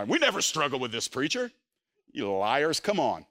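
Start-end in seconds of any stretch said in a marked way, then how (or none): 0.0-1.5 mock pious congregation. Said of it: "Y'all are all so super spiritual".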